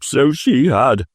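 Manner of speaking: a lightly voiced old Scrooge, stirred; Scrooge crying out. A narrator's reading. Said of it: "cried Scrooge".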